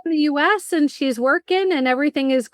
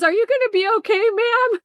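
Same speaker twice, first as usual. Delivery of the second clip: much higher, gentle flight attendant voice; concerned stewardess; 11 semitones higher than usual. Retold or imitated. Stewardess asks the crying mom on the plane, higher and gentle. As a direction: play a kindly stewardess checking on a passenger. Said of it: "The stewardess says".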